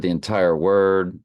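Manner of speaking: numb mouth slurring the words; slurring through a numb mouth; slurred from numbness. Real, not acted. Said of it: "Did y'all hear me slur right there?".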